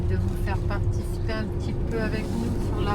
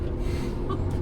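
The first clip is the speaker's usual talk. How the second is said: nervous laugh; 7 dB quieter than usual. Real, not acted. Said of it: "c'est un rire jaune".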